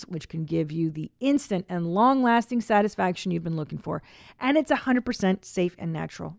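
upbeat, emphatic sponsor pitch; ad read. Acted. Host pitching a product to listeners, ad read. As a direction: sell it, leaning on key words.

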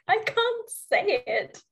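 talking through a giggle; laughing. Real, not acted. Learner laughing at failing the R, talking through giggles. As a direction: giggle over the words.

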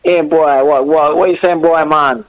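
Jamaican accent. Shown as a demonstration. Guest doing a Jamaican on request, Jamaican accent. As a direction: greet a pal in playful Jamaican.

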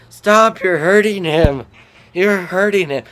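loud high plea; pleading shout. Retold or imitated. Friends yelling at the fighters to stop, loud. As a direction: yell at them to stop.

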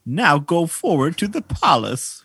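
high, thin village elder; quest-giving old sage; old man voice. Acted. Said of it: "I'll be the old man voice".

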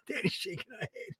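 hushed stage whisper; whispered aside. Real, not acted. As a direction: whisper it like a side remark to the room. Aside whispered before repeating aloud.

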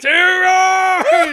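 put-on high shouted English accent. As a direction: yell it in a hammy English accent. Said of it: "your English accents".

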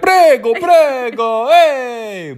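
high, loud, stretched-out calls; gleefully obnoxious, pitch way up; defiant youthful exuberance. Acted. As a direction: belt it out like a rowdy twenty-two-year-old. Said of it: "if I was twenty-two ... I would be like".

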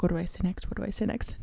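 mock reading off a list; quiet autopilot voice; mumbled to self. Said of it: "I'm like".

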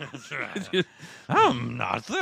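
lightly drawled, a hint of Southern; mock Southern drawl. Joking back in a Southern drawl. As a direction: toss it off in the drawl. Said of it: "I can do that accent a little bit too good".

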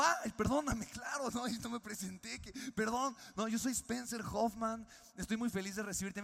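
put-on eager young host apologising to his guest; flustered apology. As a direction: say sorry like you just realised your mistake. Apologizing to John, retold.

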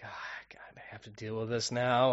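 hushed, weary grumble; quiet, exasperated self-talk; dreading a sore throat. Retold or imitated. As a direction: groan it under your breath, mostly whispered. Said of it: "like, a sore throat".

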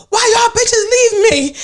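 high, drawn-out wailing complaint; mock wail. Imitating the friend bursting through the hotel door, wailing accusingly.

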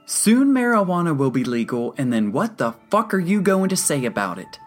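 high, loud enraged rant; seething patient exploding in outrage; furious. A narrator's reading. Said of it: "Alfonso looked ready to kill".

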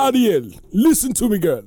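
high, loud Jamaican-accented cartoon crab; Sebastian the Crab. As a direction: plead in a big Jamaican accent. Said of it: "'cause of Sebastian the Crab".

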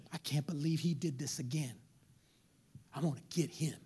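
low, hushed private grumble; resentful muttering. Acted. Spouse nursing a grudge after being wronged, resentful muttering. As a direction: mutter it under your breath, low and quiet.

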